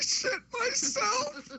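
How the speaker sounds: very high, slow, crying squeal; squeaky high cry. Acted. Host reacting to the fart, squeaky high mock cry.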